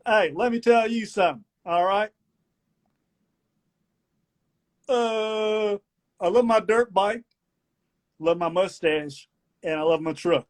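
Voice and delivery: hammed-up Southern patriot lecturing; mock Southern rant. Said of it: "One of my favorite segments".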